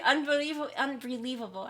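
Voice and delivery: imitating a Chinese-accented English unbelievable; lightly mock the way her mom would say unbelievable; Asian accent. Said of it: "like how an Asian person would say unbelievable".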